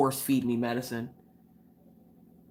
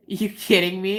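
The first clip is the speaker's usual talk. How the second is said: higher rising question; imitating a friend's disbelief; retold incredulity; 4 semitones higher, 4 dB louder than usual. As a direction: ask it in amused disbelief. Friend's retold incredulous laughing remark.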